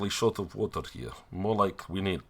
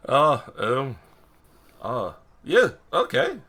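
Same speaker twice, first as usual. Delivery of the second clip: flustered character; 4 semitones higher than usual. Acted. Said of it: "That'd just be funny, like".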